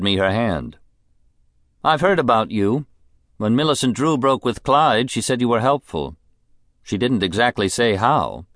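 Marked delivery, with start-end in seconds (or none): 1.8-8.5 high, languid society woman; a spoiled, bored rich lady; rich invalid wife. Acted. Mrs Sampson voice.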